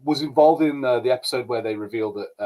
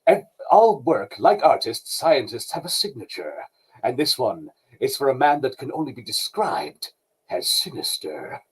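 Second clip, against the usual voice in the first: mock dramatic Beast line. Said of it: "he had that thing of".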